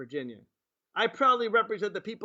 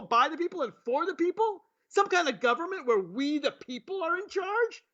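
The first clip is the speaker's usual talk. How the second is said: sarcastic mock outrage; 6 semitones higher than usual.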